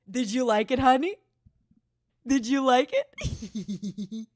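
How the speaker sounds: slow, laughing tease; giggling as she fishes for praise. Real, not acted. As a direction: drag it out through a giggle. Teasing about her joke.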